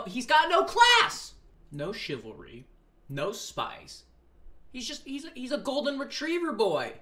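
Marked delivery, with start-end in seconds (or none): 0.0-1.3 mock indignant. Ranting about Danny's manners.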